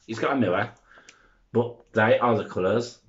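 breathless from talking fast; slightly winded, gasping between phrases; out of breath. Real, not acted. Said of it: "now I'm out of breath".

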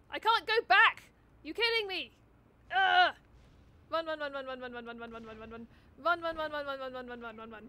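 panicked shout fading into breathless run chant; urgent, loud, then trailing off; being chased. Real, not acted. Shot at, fleeing in game.

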